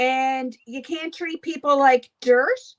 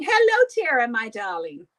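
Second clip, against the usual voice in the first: mock her fake sweetness; lightly voiced sugary rival; imitating her sweet greeting. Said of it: "she's going".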